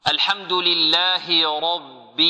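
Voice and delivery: measured recitation pace; slow Quran recitation. Shown as a demonstration. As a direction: chant الحمد لله رب slowly and deliberately. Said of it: "teacher recites the verse".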